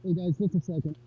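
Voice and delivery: muffled, underwater sound; like talking from under water. Real, not acted. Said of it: "you sound like you're underwater".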